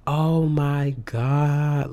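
a long, amazed sigh of a phrase; drawn-out oh my God. Retold or imitated. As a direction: stretch it out, slow and awed. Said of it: "and I was like".

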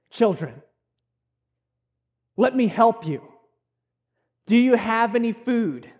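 gentle and kindly; tender. Acted. Jesus kindly offering help to his disciples, tender. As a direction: offer help like a loving parent. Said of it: "is a term of endearment".

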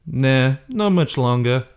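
lightly imitated wooden line reading; a mild send-up of poor acting; badly acted movie line, understated; imitating bad acting. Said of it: "Just like that. And it's some of the worst acting".

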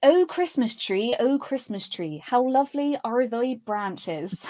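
slow West Country drawl; unhurried, rural Cornish villager voice; Cornish accent. Shown as a demonstration. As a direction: recite it in a broad Cornish accent. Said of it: "so Cornish".

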